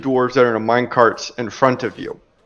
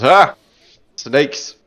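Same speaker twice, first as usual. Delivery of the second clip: smiling dwarf; 3 semitones lower than usual. Acted. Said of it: "one of them smiles and says".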